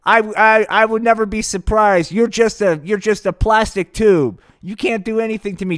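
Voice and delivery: a hint of a sneering dictator; Kim Jong-un. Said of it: "Kim Jong-un goes".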